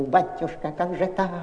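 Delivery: a lightly voiced granny begging and refusing; mild whiny old woman's plea; whining old woman. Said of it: "и голос заныл".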